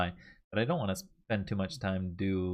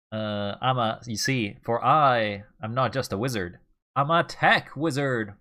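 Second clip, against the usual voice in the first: sneering panto villain; 4 dB louder than usual. Pretend. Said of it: "This is so corny".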